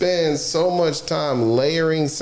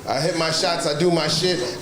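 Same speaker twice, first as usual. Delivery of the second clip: mock Giannis. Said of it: "I'm just playing".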